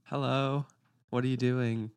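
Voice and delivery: American accent from the tip of the tongue. Shown as a demonstration. Testing tip-of-tongue tip, exaggerated American accent. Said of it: "That was the most American thing".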